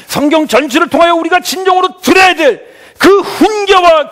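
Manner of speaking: high, loud sermon in driving phrases; impassioned preaching. Real, not acted. Pastor urging parents to give God's love, impassioned preaching. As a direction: proclaim it with full pulpit force.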